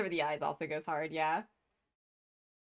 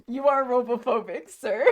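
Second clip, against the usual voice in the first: mock-offended accusation; Kibo; 4 semitones higher, 6 dB louder than usual. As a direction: accuse them in a raised, put-on voice. And Kibo's like.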